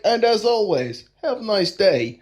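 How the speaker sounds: light mock Russian accent; FPS Russia. Co-host mimicking a YouTube weapon reviewer, mock Russian accent. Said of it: "there's a guy on YouTube for F P S Russia".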